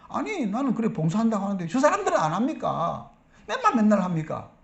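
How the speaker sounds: mildly indignant, aggrieved protest; hammed-up resentful grievance; mock angry complaint. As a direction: act out a volunteer protesting unfair treatment. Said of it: "막 화를 내는 거예요".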